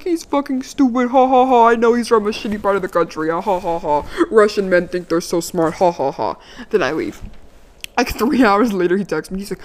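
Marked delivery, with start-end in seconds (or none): 0.0-6.4 trash-talk him with put-on laughter; mock laughing gossip. Mocking him to his roommates, fake laughter. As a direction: fake ha ha ha between digs.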